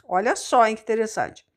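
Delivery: ordinary talk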